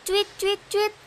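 soft mock chirping; bird chirp. Child imitates a bird for mother with soft chirps. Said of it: "coba kalian tirukan suara burung".

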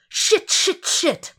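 shocked at what he sees; startled string of curses; alarmed cursing. Acted. Lieberman sees horror on camera.

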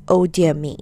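a sneering oh dear me thrown back; mock his words nastily; nasty mocking. Aunt mocking Metal's words back at him, nasty. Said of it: "in a nasty sort of voice".

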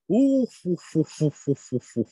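high, slow creepy "ohoho" laugh; sinister high laugh. Acted. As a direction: cackle like a sly salesman. Salesman's laugh. (不気味な高笑い)

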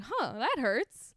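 dead flat, unbothered delivery; monotone. Retold or imitated. Mocking the actor's reaction, flat monotone. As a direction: say it like it barely registers. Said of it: "like, monotone".

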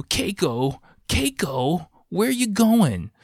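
high mock man-child calling out; needy man-child. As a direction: imitate an overgrown kid calling after her. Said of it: "full man child".

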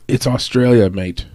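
a lightly voiced, badly faked Australian accent. Guessing where the crowd will be in Australia, badly faked Australian accent. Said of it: "That was a terrible accent try".

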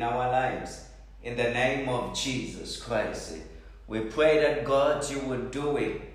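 earnest, pleading prayer voice; fervent prayer. Acted. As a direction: pray aloud over the congregation. Leads congregation in prayer.

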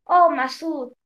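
restrained call, as read aloud; mild narrated cry. A narrator's reading. King's wife calls to Masud in the garden, mild cry. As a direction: call out a name with understated force. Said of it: "la mujer del rey gritó".

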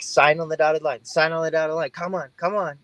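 used car salesman. Retold or imitated. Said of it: "you sound like a used car salesman".

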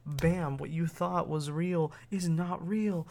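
loud, slow, booming reveal; dramatic announcement. Retold or imitated. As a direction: proclaim it like a shocking truth. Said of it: "you're like".

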